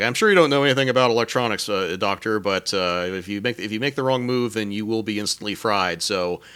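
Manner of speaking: breezy heroic swagger; Kirk quote. Retold or imitated. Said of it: "And he says, like".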